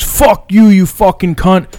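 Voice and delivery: high mock yell, held back in volume; retold scream. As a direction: imitate dad screaming abuse. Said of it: "screaming, dude, at the top of his lungs".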